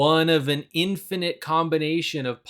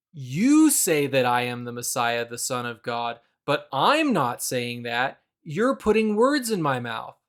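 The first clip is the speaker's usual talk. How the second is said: defensive denial; 2 semitones lower than usual. Retold or imitated. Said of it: "Maybe he's saying no, like".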